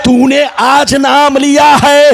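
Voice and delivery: rhythmic, chanting sermon delivery with stretched words; full-force preaching. Acted. Preacher relays God's question to Adam, rhythmic chanted preaching. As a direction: preach it in measured, ringing phrases.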